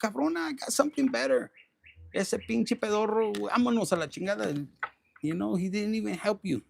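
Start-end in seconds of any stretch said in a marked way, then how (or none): 0.0-4.7 higher, cheeky God voice telling her off; sassy God voice. Retold or imitated. God answering the resentful viewer, sassy and higher. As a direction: play God as a sassy homegirl. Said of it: "And God's like".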